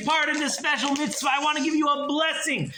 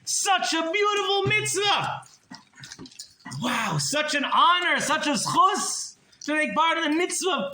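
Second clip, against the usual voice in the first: effusive praise; 12 semitones higher than usual. Acted. Rebbe overjoyed thanking the miser for a nickel, much higher. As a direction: marvel as if it were a fortune.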